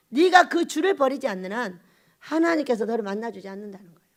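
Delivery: ordinary delivery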